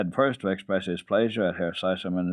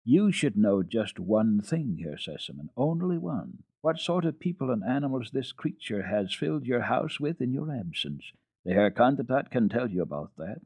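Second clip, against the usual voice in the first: higher, scandalized governess; 4 semitones higher than usual. Acted. Governess reporting to the father, higher and scandalized. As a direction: spill the outrage.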